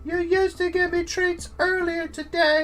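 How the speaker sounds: lightly voiced, complaining dog. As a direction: nag your owner as a neglected pup. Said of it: "infer what she might be thinking".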